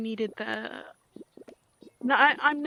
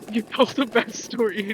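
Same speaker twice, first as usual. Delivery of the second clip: laughing reproach; 4 dB louder than usual. Acted. Repeated scolding breaks into laugh.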